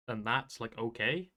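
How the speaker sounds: hiccuping mid-sentence; talking through hiccups. Real, not acted. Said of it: "sorry, I'm hiccuping".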